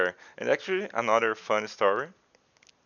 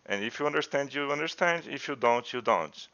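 higher, brash and careless; mocking couldn't-care-less tone; dismissive attitude; 5 semitones higher than usual. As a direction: imitate the rude girl shrugging everyone off. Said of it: "And she was like".

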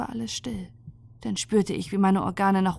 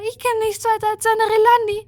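very high, louder rushed pleading; frantic plea; 14 semitones higher, 6 dB louder than usual. Acted. Ninvini pleads she knows only a Relandi, high frantic voice. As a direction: Relandi said quickly in desperation.

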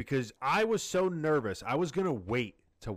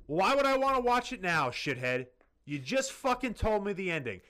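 imagined retort; 4 semitones higher than usual. Retold or imitated. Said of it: "and you're like".

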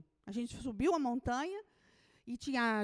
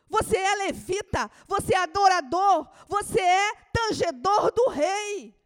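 loud, fervent preaching; sermon cry; preaching at full force; 6 semitones higher, 13 dB louder than usual. Acted. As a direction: proclaim it over the congregation. Preacher proclaiming.

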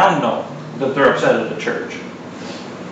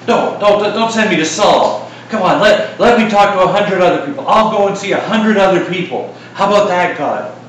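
higher, pleading protest to God; lightly voiced frightened Ananias pleading; 4 semitones higher than usual. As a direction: whine and bargain with God. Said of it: "He's sitting there going".

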